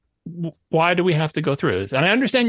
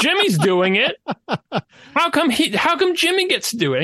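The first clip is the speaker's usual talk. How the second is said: put-on higher, laughing kid protest; whiny child; 6 semitones higher than usual. Mocking the developer as a small child complaining, higher and laughing. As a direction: whine like a kid who saw a sibling get away with it. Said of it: "any small child would send".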